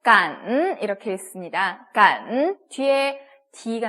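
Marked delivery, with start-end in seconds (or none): 0.0-0.8 drawn-out 깐 in Mandarin third tone. Shown as a demonstration. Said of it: "삼성이 들어갔어요". 1.9-2.6 drawn-out 깐 in Mandarin third tone. Shown as a demonstration. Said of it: "삼성이 들어갔어요".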